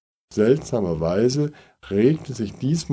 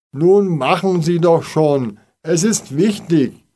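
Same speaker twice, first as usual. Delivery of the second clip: urgent calling; 7 semitones higher, 4 dB louder than usual. A narrator's reading. Urgent pleading to neighbours.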